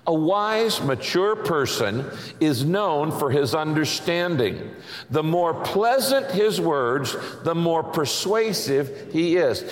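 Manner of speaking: slow, measured verse reading; reading aloud together. Real, not acted. Preacher leading the congregation in a proverb, measured reading aloud. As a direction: read it out slowly for a group to follow. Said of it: "Read it aloud with me".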